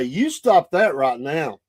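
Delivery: slow, firm mock scolding; retold scolding grandma. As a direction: lightly voice a grandma laying down the law. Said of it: "Grandmas would come out and say".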